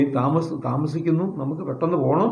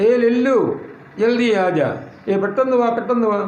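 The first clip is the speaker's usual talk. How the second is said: mildly raised, higher-pitched acted call; 5 semitones higher than usual. Teacher acting out a call to lagging Lallu, mildly urgent calling out. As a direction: lightly act out hailing someone to hurry.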